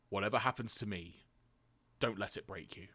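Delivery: lightly voiced dying father; a hint of solemn deathbed counsel; Spike. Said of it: "try and recreate the voice I did".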